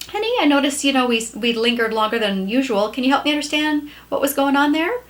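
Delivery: wife gently asks husband why they stayed, tender; gentle question. Shown as a demonstration. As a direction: ask the husband kindly, no blame. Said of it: "if I ask it really gently".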